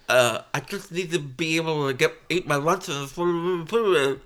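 slurring through a numb mouth. Pretend. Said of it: "I can't feel my face".

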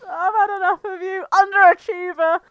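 loud, indignant putdown; angry shout. Acted. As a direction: lash out, fed up, at your rival. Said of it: "Mallard shouted angrily at him".

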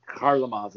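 Harlamov opened with a light scraped Kh; throaty Russian Kh. Shown as a demonstration. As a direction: say Harlamov with a little throat-clearing catch on the H. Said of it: "there's a little thing there".

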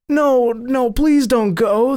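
high, urgent warning shout. A narrator's reading. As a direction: plead loudly in alarm, pitched high. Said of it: "they shouted".

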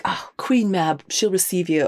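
lightly put-on smarmy suitor; a touch of oily smoothness, acting the suitor; smarmy Willoughby. Willoughby presenting the horse, mildly smarmy. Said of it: "being smarmy and being like".

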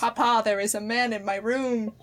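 overacted child pleading to papa; hammed-up scared child line; too much inflection. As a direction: lay the emotion on a bit too thick. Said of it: "Sorry, that was too much inflection".

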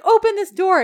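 high, loud order; mock indignant demand. Woman locked in the back seat, high loud mock demand. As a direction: demand it loudly in mock outrage.

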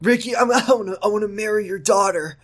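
high-pitched, amused character line; hammed-up dialogue. Reader voices Ricky asking to marry the daughter, hammed-up. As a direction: play the proposal high, breaking into a laugh. Hammed-up proposal read aloud.

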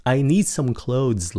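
"clothes" with a clear hissed s at the end; don't drop the s in "clothes"; final s sound. Shown as a demonstration. Teacher reminding students to sound the s in "clothes". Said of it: "Đừng có quên xì".

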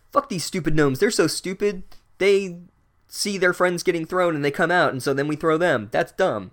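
high-pitched, jeering scorn; mock contempt. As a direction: imitate boys ridiculing something they find idiotic. Acts out brothers mocking the gnomes.

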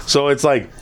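ordinary talk, nothing marked

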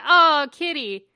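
loud, slow cooing at a pet; cooing Kitty. Retold or imitated. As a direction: coo it like a girl to a pet. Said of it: "she's like".

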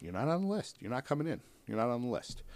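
high, firm doorman refusing entry; bouncer voice. Pretend. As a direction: stonewall them like a bouncer.

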